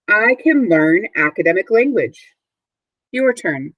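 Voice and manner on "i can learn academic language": model sentence to repeat. Shown as a demonstration. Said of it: "please repeat the objective after me".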